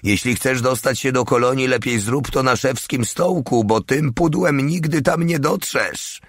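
high-pitched, climbing taunt; high mocking heckler voice; jeering soldier. A narrator's reading. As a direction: pipe up high to mock the driver.

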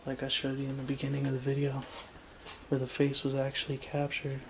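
ordinary delivery

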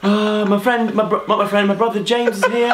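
upbeat YouTuber intro voice; chirpy vlog greeting; Ollie White impression. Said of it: "Do Ollie White".

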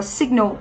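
"signal" stressed on SIG; stress on first syllable. Shown as a demonstration. Teacher modelling word stress for students, first syllable of "signal" stressed. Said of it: "danh từ trọng âm một".

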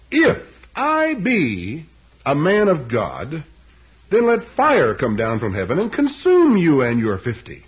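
slow, loud prophetic declaration; acted thundering prophet; solemn pronouncement. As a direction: call down judgment, swelling on the key words. Preacher acts out Elijah's judgment.

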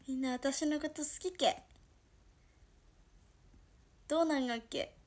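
sweet line in Toyama dialect; lilting Toyama-dialect question. Shown as a demonstration. Streamer tries moe lines on viewers, Toyama dialect. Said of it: "富山弁でやってみっか".

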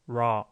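low-pitched demo of retracted R; "raw" begun with tongue drawn back; pulled-back R. Shown as a demonstration. Teacher echoes recording for students, retracted R. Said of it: "R 발음을 잡아당긴 겁니다".

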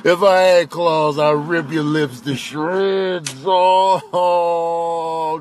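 drawn-out mock misery; long, woeful comic moans; moaning threat. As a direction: groan a helpless threat. Voiced pet threatens owner.

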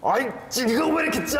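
overexcited complaint; too worked up. Acted. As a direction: push the complaint too hard. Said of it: "방금은 너무 흥분하셨어요".

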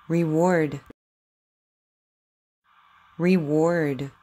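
crisp, exaggerated W in each word; over enunciating. Shown as a demonstration. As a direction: say it slowly for a child to copy. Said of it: "Just repeat after me".

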